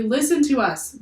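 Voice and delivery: high and loud; loudest yell. A narrator's reading. Jack yells to the whole crew, at full volume. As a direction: shout so everyone can hear. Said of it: "Jack yelled in his loudest voice".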